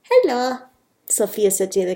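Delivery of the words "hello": put-on higher hello with a light Spanish accent; mild put-on Spanish accent. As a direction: greet with a hint of Spanish accent. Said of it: "Sophia's got a bit of a Spanish accent".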